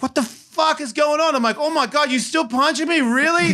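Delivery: high-pitched bewildered protest; mock disbelief. Husband realizing he is still being punched, high mock disbelief. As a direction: act out stunned incredulity.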